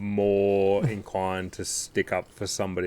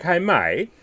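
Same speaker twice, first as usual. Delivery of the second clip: slow, deliberate, a bit louder and higher; stern telling-off; 5 semitones higher, 3 dB louder, much slower than usual. Retold or imitated. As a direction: lay down the law to a rude coach. Telling off the coach.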